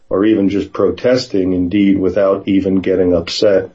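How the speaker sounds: even, fluent book reading; measured read-aloud from a book. A narrator's reading. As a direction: read the memoir passage out to listeners.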